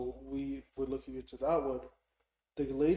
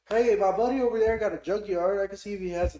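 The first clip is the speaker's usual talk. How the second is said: loud redneck, high and hollering; 7 semitones higher, 11 dB louder than usual. Retold or imitated. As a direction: play a helpful redneck, shouting. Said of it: "this redneck pulls up".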